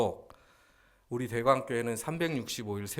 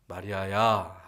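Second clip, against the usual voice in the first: calling by name; 9 dB louder, slower than usual. Acted. Jesus calling distraught Mary by name, calling out. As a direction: call out firmly to get through. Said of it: "하고 부르셨어요".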